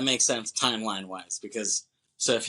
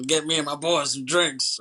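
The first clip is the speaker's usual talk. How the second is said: higher imitation of a bossy barfly; mock drunk heckler; 4 semitones higher, 3 dB louder than usual. Podcaster retelling the drunk's order to the husband, mock drunk heckler. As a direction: lightly play a drunk ordering someone about. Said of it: "tells him".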